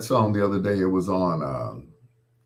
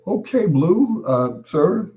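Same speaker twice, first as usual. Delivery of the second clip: high-pitched, louder starstruck reply; Mickey Mouse squeak; 10 semitones higher, 5 dB louder, slower than usual. Retold or imitated. DJ answering his idol, mock Mickey Mouse high voice. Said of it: "Made me sound like Mickey Mouse".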